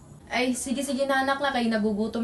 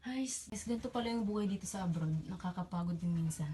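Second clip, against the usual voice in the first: tired; 3 semitones lower, 12 dB quieter than usual. Acted. Tired worker abroad.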